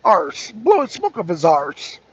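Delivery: put-on Irish accent on "arse"; lightly attempted Irish lilt. Shown as a demonstration. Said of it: "I have to do my Irish accent".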